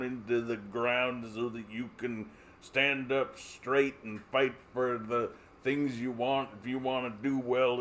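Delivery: lightly voiced preachy conservative; a hint of a smug lecturing voice; mock conservative. Conservatives lecturing the lazy, mock preachy. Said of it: "and they're like".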